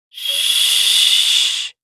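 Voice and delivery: sharp unvoiced hush; a quick whispered shh. A narrator's reading. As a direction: shush him quietly. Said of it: "whispers someone nearby".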